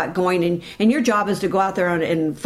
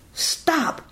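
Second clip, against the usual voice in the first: firm stop command; 7 semitones higher, 4 dB quieter than usual. Shown as a demonstration.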